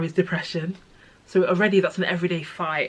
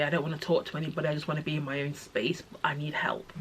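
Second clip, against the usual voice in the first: hushed plea; 6 dB quieter, faster than usual. Retold or imitated. Voicing own overwhelmed plea.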